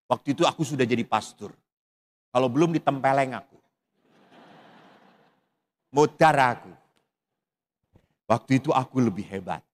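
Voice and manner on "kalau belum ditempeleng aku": ordinary talk, nothing marked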